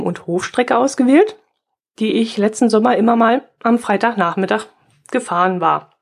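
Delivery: struggling to get the words out; voice giving out. Real, not acted. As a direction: voice cracking and failing. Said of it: "meine Stimme versagt ja heute wirklich".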